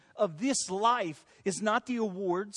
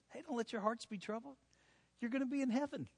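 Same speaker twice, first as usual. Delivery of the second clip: softer, offhand hey, don't worry; casual reassurance; 6 dB quieter, faster than usual. Acted. Jesus reassuring his friends, softly and casually. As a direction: toss it off gently, like a friend. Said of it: "that's literally what Jesus is saying".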